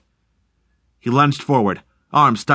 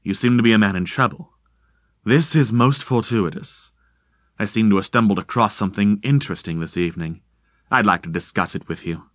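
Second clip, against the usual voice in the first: courteous, unhurried explanation; lightly voiced polite stranger; 2 semitones lower than usual. Stranger's musing offer.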